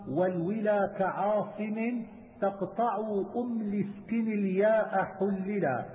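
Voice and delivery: slow, measured verse recitation; poem recitation. Acted. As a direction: draw out the syllables, reciting metred verse. Recites the next section of verse. (إلقاء منظومة بتمهل ومدّ)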